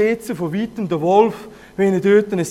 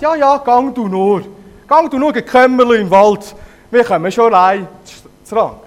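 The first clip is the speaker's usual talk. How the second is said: put-on young goats calling out high and loud; chirpy, carefree send-off; cheeky kids; 4 semitones higher, 9 dB louder than usual. Kids shouting bye to their mother, loud and high.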